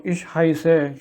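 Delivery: slow, careful ich heiße, stress on heiße; slow demo. Shown as a demonstration. Teacher slowly models ich heiße for learners. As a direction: say it slowly and clearly. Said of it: "So the word is heißen".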